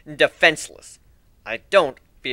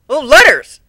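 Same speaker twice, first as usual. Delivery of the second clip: higher, louder delighted cry; excited; 10 semitones higher, 13 dB louder, slower than usual. Acted. Griffin spots the letters, higher and louder delight. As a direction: pounce on the discovery.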